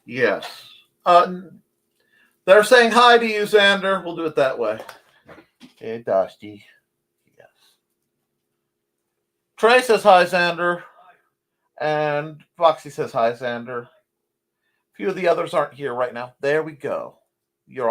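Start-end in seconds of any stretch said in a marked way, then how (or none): 2.4-4.0 high, louder cutesy greeting; pet voice. Pretend. Greeting a viewer for the cats. 9.6-13.8 high, louder cutesy greeting; pet voice. Pretend. Greeting a viewer for the cats.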